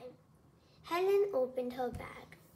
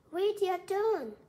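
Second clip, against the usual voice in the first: high, loud, drawn-out call; shout; 7 semitones higher, 7 dB louder than usual. A narrator's reading. Ethan to Roy pushing into the kickball line, shouting. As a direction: shout it slowly as an order. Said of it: "shouted E-, Ethan".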